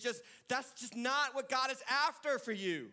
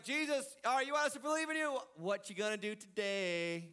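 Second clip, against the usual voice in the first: cocky, fast taunt to Jesus; mock demanding voice; mocking crowd challenge. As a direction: challenge him like a skeptic. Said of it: "They're like".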